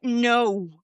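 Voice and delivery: "no" with a long, gliding American O; stretched, diphthong "no". Shown as a demonstration. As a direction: draw out "no" the American way. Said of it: "like Americans do".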